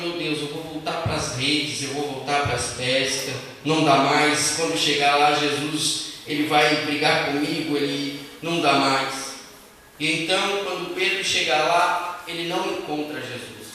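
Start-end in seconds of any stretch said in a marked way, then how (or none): 0.0-9.3 lower, downcast voice of defeat; worried, giving up, sinking low; triste e preocupado. Acted. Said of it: "Pedro todo triste, todo preocupado". (voz triste e preocupada)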